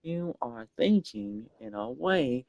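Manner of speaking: very slow otherworldly voice; eldritch horror. Acted. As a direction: stretch every word like a cosmic being. Repeats the slow cosmic voice.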